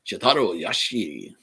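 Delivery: slow, put-on Japanese accent. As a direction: draw the name out in a Japanese accent. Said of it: "if I do the Japanese accent".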